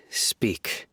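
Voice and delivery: whispered command. Acted. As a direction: hush the word out like a command. Interrogator gives a curt order.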